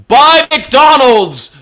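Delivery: very high, drawn-out hammed-up yell; mock ad shout. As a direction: holler it like an overblown ad slogan. Mimicking ads that bombard him.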